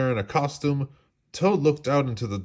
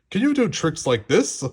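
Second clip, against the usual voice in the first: boastful; 8 semitones higher, 4 dB louder than usual. A narrator's reading. Toad boasting on stage.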